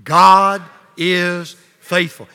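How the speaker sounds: like we mean it. Shown as a demonstration. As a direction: proclaim it with full conviction. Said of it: "Now let's say it like we mean it".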